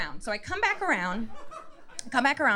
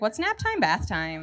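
put-on innocent child. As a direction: ask like a puzzled little kid. Child asking about phrase.

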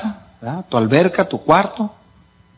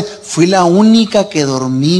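proud daughter; much slower than usual. Retold or imitated. Daughter proudly reporting from camping trip.

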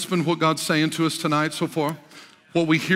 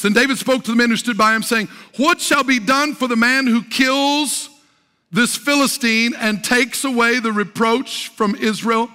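declaimed scripture reading; 6 semitones higher, 4 dB louder than usual. Real, not acted. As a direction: read the verse out grandly, stretching key words.

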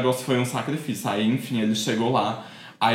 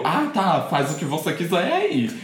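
retold breezy reply, pitched higher; offhand go-ahead; 5 semitones higher than usual. Retelling her answer to the date's delivery plan, breezy and higher. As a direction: lightly act out a whatever-you-like answer, voice lifted.

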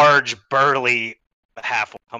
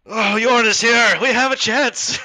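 high, drawn-out, louder exclamation; hopeful cry; 10 semitones higher, 5 dB louder, slower than usual. Acted. Dazed man on the ground seeing Yorn arrive, hopeful cry. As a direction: cry out in sudden hope. Dazed fighter rejoices at reinforcement.

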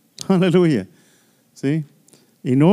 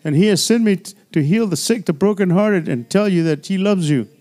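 mock witnessing; 3 semitones higher than usual. Shown as a demonstration. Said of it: "When you meet people, say".

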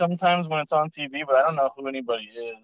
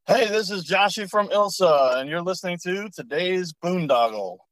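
upbeat, higher station ID read; radio promo ID; 5 semitones higher than usual. Pretend. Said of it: "Cut a promo I D for the show".

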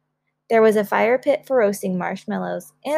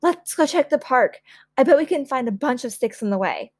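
high, keen suggestion; rally everyone eagerly; eager child; 4 semitones higher than usual. Acted. Child off to hunt for sticks, eager.

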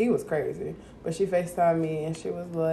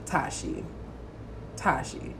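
imitating dad; 5 semitones lower, 10 dB quieter, slower than usual. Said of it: "he'll be like".

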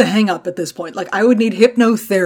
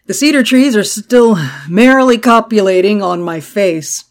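congested allergy voice; hoarse voice; 4 dB louder than usual. Real, not acted. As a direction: speak through a stuffed-up throat. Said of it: "I sound like a swamp creature".

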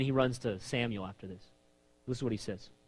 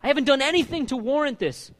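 high, loud protest of innocence; crying out to God; 11 semitones higher, 7 dB louder than usual. Acted. David telling God he is innocent, loud and high. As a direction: show God the wrong, at full voice. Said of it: "He's telling him".

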